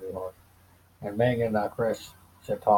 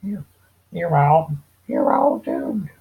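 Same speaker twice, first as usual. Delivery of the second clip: put-on higher, louder, drawn-out raspy old man; slow ominous raspy drawl; 7 semitones higher, 7 dB louder, slower than usual. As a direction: rasp out a slow doomy warning. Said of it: "If I can do a better one".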